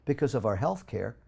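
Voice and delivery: impassioned outcry; heated rant. Real, not acted. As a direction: rail against the food industry, voice climbing. Ranting about sugar in low-fat foods.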